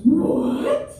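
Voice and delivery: aghast. Retold or imitated. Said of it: "She was aghast. She was mad".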